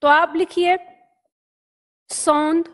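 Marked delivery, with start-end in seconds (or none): 2.1-2.6 drawn out slowly; slow spelling-out; slow syllable. Shown as a demonstration. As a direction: dictate the first half slowly. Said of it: "इस तरह से".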